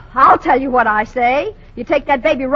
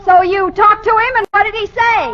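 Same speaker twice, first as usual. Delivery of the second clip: eager; 8 semitones higher, 4 dB louder than usual. Acted. Eagerly distracting Frank.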